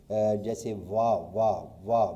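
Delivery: وا said as a clear open "vaa", repeated slowly; teacher sounding out وا for students; sound demo. Shown as a demonstration. Teacher to students, sounding out وا. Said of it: "وا کی آواز آتی ہے".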